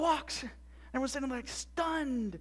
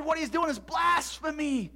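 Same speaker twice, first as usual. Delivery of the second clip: high, slow shouted accusation; accusing Pharisee; 6 semitones higher, 4 dB louder, slower than usual. Acted. Pharisees condemning Jesus, outraged. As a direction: denounce it, stretching the words.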